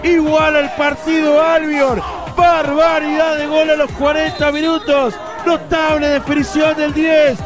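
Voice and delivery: shouted post-goal celebration; excited goal commentary. Real, not acted. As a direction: celebrate the stunning strike. Shouted celebration after equaliser.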